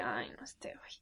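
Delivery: whispered, weary aside; hushed retold thought to oneself; exasperated aside. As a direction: say it under your breath, fed up. Muttered aside on seeing him peek.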